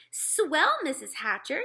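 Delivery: put-on high, loud, pleased girl; delighted eagerness. A narrator's reading. Sheila given the babysitting job, eager high delight. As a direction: burst out pleased on the first word.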